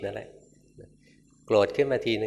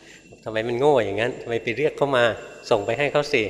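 mock scolding; 4 dB louder than usual. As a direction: scold them for being foolish, unhurried. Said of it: "ครูบาอาจารย์เลยด่า".

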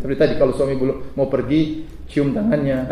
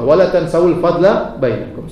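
slow recitation; slower than usual. Shown as a demonstration. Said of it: "Sudah hafal belum?".

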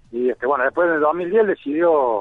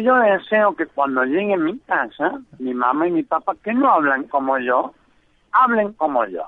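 put-on gangoso kid voice; 3 semitones higher than usual. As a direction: spell out the wish slowly in the kid's voice. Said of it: "lo que haces de gangosos".

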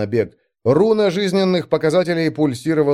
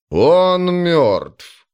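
alarmed shout; 6 semitones higher, 4 dB louder than usual. Acted. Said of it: "раздалось из-за спины".

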